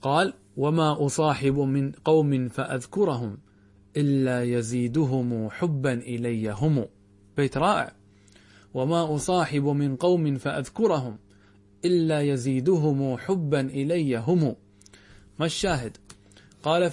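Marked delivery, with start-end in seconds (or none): 0.6-6.9 slow poetry recitation. Acted. 8.7-14.6 slow poetry recitation. Acted. Reciting the verse again.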